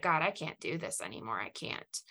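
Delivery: soft, fading to a whisper; broken whisper. Retold or imitated. Collapsed on the floor telling God she is done, fading to a whisper. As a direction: let it die away to a whisper, spent.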